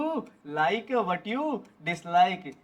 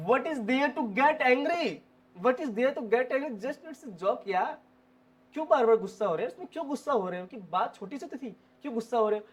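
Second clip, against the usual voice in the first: higher, sing-song protest; mild acted remonstrance; 4 semitones higher, 4 dB quieter than usual. To an upset friend over small things, mild remonstrance. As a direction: reason with them in a higher voice.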